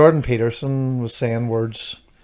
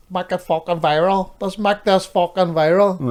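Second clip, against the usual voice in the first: raised-pitch mock shout, slowing at the end; imitated shouting; 5 semitones higher than usual. Boy in viral shoplifting video, imitated shouting. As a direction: imitate a lad's excited holler, not full volume. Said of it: "the boy shouting".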